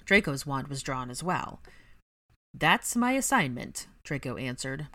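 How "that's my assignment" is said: slow, grudging reply; displeased. Acted. Draco displeased with his post, slow grudging. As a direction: admit it unwillingly. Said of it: "clearly displeased with his post".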